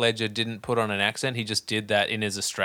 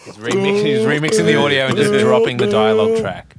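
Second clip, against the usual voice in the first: excited; 10 semitones higher, 7 dB louder than usual. Real, not acted. Excited punchline about Nolan.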